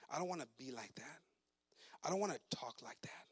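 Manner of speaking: mock sulky refusal. Preacher imitating a stubborn believer, low and whispered. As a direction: mumble it like you don't want to change.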